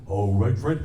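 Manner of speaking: chuckling sidekick voice; Barney Rubble. Shown as a demonstration. Barney answers Fred in the Flintstones bit, chuckling. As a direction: answer your buddy with a giggle. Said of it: "with Barney Rubble".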